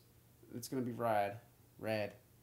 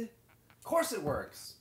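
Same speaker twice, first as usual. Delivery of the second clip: drawn out slowly; 4 semitones higher, much slower than usual. Acted. Character's drawn-out retort.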